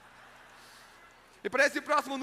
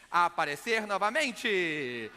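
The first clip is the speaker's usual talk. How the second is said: drawn-out reveal; 4 semitones lower, much slower than usual. Acted. Magician's big reveal in act.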